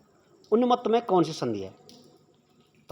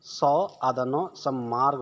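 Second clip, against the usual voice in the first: spelling it out; 4 semitones lower, slower than usual. Shown as a demonstration. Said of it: "spelling the word out".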